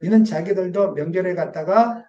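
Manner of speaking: slow, measured Bible reading; scripture reading. Acted. Pastor reading scripture to the church, slow and measured. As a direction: read the verse slowly to the congregation.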